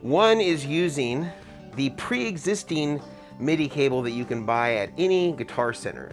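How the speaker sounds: muffled through an N95 mask; talking through a mask; through a face mask. Real, not acted. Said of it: "an N ninety-five mask".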